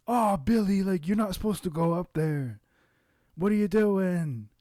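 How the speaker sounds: lightly voiced British dog owner; British neighbor impression. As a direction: imitate the neighbor's put-on protest. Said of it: "he's, like, a British guy".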